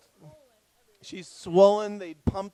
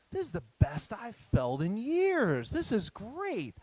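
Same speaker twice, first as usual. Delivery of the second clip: mock elated wife; 5 semitones higher than usual. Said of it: "She says".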